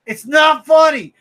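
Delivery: loud, drawn-out complaint; annoyed fan shouting that the page is not funny; frustrated shout. Real, not acted. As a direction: yell it slowly in protest. Ranting about the comic page.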